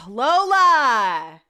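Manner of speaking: slow call to the dog. Real, not acted. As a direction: call her name across the room. Calls the dog.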